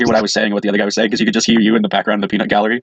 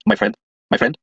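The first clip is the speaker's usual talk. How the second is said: mock Indian accent, pitched way up. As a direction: play a stereotypical Indian shop clerk. Mocking store clerk on phone.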